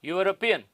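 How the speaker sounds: यूरोपियन as a lone model word, starting "yoo"; pronunciation demo. Shown as a demonstration. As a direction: say यूरोपियन as "yoo-ro-pi-yan" with a falling close. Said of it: "यूरोपियन का उच्चारण ऐसे किया जाता है".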